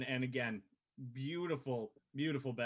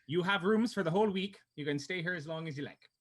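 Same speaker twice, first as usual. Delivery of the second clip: barmaid voice. Acted. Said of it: "as she comes back out and goes".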